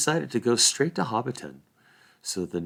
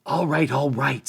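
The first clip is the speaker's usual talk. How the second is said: raised, louder country-hobbit protest; fed-up Sam; 6 semitones higher, 5 dB louder than usual. A narrator's reading. Sam breaking up the argument, fed-up protest. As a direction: put a stop to the squabble.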